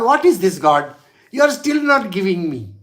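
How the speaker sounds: complaining loudly; upset complaint to God. Retold or imitated. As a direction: protest hard at God for unfair treatment. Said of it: "he gets very upset".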